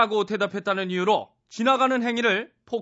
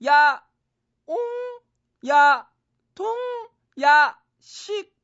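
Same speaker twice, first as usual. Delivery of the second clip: playful shout; 7 semitones higher, 4 dB louder, much slower than usual. Acted. Demoing his silly answers to yah.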